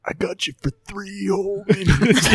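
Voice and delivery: laughing mock voice. GM mocks spell in voice.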